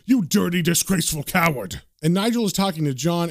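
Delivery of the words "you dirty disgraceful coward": mild acted yell; held-back angry rebuke. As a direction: scold with contempt, punching the insults. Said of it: "Marston is yelling back".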